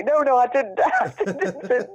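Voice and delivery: laughing through the denial; giggling no, no, I didn't. Real, not acted. To her friend, denying it while laughing.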